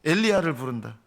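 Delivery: mildly jeering announcement; lightly acted scoff; mocking. Crowd claims he is calling Elijah, mildly mocking. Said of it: "하면서 예수님을 조롱했어요".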